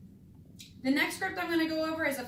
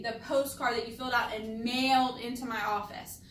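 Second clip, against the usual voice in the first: "postcard" and "mailed" punched; emphasized key words. Shown as a demonstration. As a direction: make "postcard" and "mailed" stand out. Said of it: "I'm emphasizing those words on purpose".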